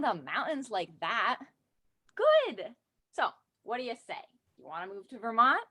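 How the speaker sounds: chatty, teasing tour-guide pitch to a newcomer; cheeky tour guide. Acted. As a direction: sell the town with a wink. Comic Vermont tour-guide monologue read aloud.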